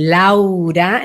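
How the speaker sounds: "Laura" drawn out, open and full; full-voiced, stretched "Laura"; whole name, full strength. Shown as a demonstration. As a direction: give "Laura" its whole width. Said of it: "entero daría esta fuerza".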